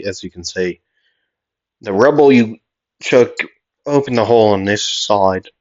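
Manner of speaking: lightly put-on British voice; a hint of British in the character; British accent. Hider explaining himself, light British accent. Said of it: "like, British".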